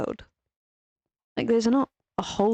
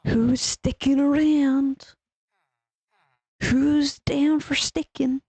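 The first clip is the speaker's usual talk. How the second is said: sing-song call; 5 semitones higher, slower than usual. Real, not acted. Calling out to the game.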